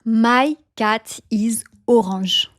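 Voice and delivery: slow French accent, long open vowels; French-accented ORANGE as "o-ranzh". Shown as a demonstration. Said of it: "you pronounce it en français".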